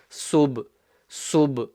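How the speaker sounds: SUB with the b bounced; bouncing qalqala. Shown as a demonstration. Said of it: "so you bounce it".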